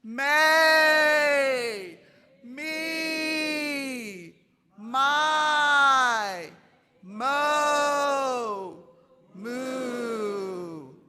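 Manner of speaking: loud, high, drawn out syllables; with effort. Shown as a demonstration. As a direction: belt each vowel to fill the room. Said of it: "Feel that effort".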